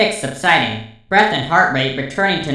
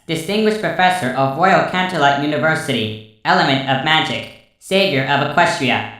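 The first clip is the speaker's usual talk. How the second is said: robotic scan. Acted. Robot scanning readout.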